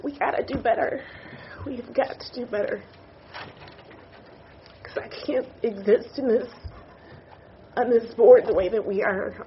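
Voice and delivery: holding back real tears; tearful. Real, not acted. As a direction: plead through tears, with pauses to recover. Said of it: "I can't believe I'm crying".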